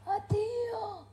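faint last farewell; dying words. Acted. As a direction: breathe out a final goodbye. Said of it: "sta per dire le sue ultime parole".

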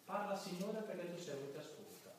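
preacher demonstrating a quiet opening prayer; soft prayer. Shown as a demonstration. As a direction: say it quietly, as if listening. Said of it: "provate a cominciare così".

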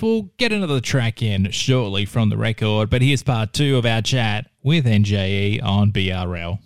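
slow, measured radio host link; back-announce it like a music show host; radio back-announcement. Acted. Host leading from the record into part two of the chat, radio back-announcement.

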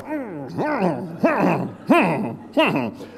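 long strained grunts in a row; imitated pained grunting. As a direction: grunt as if bracing against pain. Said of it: "and you're going".

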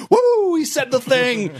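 high, slow, laughing whoop of delight; laughing "woo" from a fan; mock excited cheer. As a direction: cheer like a thrilled fan hearing the catchphrase. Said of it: "it's like".

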